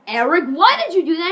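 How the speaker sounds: hammed-up cross demand; retold principal's scolding. Principal confronts Eric over Lisa, mock scolding.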